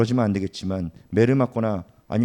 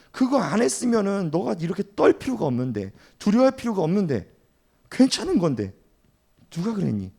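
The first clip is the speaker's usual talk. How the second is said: gently acted, higher-pitched concern; reassuring parent; 5 semitones higher than usual. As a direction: soothe a frightened child, lightly acted. Parent reassuring a frightened child.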